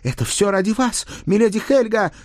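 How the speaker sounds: high, heroic declamation; brave page. A narrator's reading. Page backs his lord before milady, bravely. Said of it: "храбро поддержал меня мой паж".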